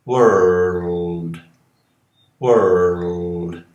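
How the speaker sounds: world, with the L drawn out as its own syllable; world with a syllabic L. Shown as a demonstration. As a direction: say world as three syllables, giving the L a full syllable. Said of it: "dando uma sílaba no L". (mundo com o L como sílaba própria)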